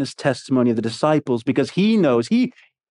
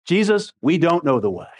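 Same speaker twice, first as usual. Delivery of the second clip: blunt, matter-of-fact comeback; blunt retort. Retold or imitated. Thomas answering Jesus, lightly voiced blunt retort. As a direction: flatly contradict him, lightly acted. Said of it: "Do you hear that?".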